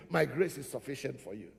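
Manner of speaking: low, softened voice of comfort; God's reassuring answer. Acted. God's answer repeated to congregation.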